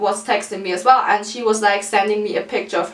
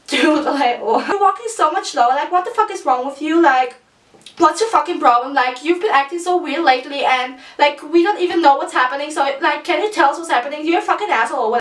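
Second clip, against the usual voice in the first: fast, higher mock-angry rant; friend's rant; 5 semitones higher, much faster than usual. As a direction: rattle off the friend's complaints, exasperated. Friend angrily confronting her.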